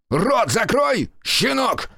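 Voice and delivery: визгливый крик, выше; сорвись на визг; сорвался на визг. Acted. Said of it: "сорвался на визг генерал". (визгливый крик)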